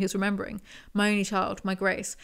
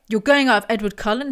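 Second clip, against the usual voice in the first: louder reading of an angry father; a touch of a dad's outburst; mild thunder; 6 dB louder than usual. Acted. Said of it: "he thundered".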